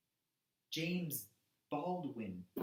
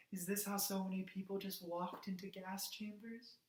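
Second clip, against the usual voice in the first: soft, higher-pitched stunned question; appalled hush; 4 semitones higher, 7 dB quieter than usual. Acted. Activist asking how people walked to gas chambers, hushed. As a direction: drop to a quiet, horrified wondering.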